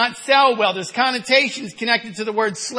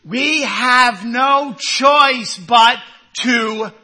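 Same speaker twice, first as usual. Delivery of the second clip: slow emphatic close; 4 dB louder, much slower than usual. Real, not acted. Preacher's closing declaration.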